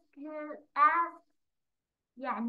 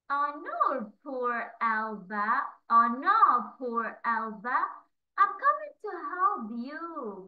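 mild grandpa yell; 4 dB louder, slower than usual. Acted. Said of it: "Grandpa yells".

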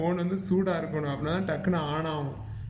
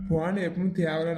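ordinary talk, nothing marked

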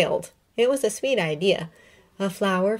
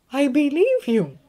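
put-on high, slow, gentle older woman; McGonagall voice; 9 semitones higher, 4 dB louder than usual. A narrator's reading. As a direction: repeat it slowly and kindly. Said again, slower.

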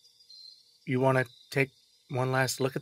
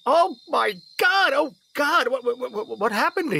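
much higher, louder panicked cries; panicked shock; 14 semitones higher, 4 dB louder than usual. Acted. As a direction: freak out at the blood. Father sees daughter covered blood.

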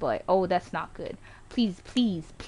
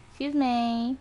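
slightly raised "Excuse me"; drawn-out request; 3 semitones higher, slower than usual. Real, not acted. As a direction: say "Excuse me" with a small rise on "me". Repeats request, escalating it.

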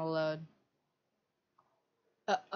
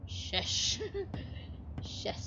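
soft shush, barely voiced; quiet yourself down; hushing; 3 semitones higher, 9 dB quieter, much slower than usual. Real, not acted. Hushing himself.

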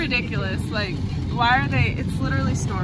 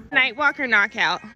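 teacher voice; 4 dB louder than usual. Acted. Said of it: "Please ignore my teacher voice".

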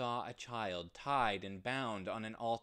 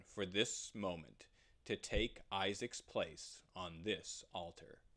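God's voice; 3 semitones lower than usual. Acted. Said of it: "the voice of God".

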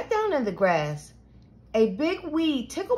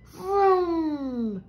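mock engine yell; 4 semitones higher than usual. A narrator's reading. Peter playing trucks in the garden, mock yelled vroom. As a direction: imitate a toy truck revving, stretched out. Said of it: "Peter yelled".

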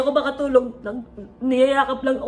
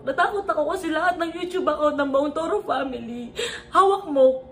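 crying; 2 semitones higher than usual. Real, not acted. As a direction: voice breaking while confessing. Emotional confession, crying.

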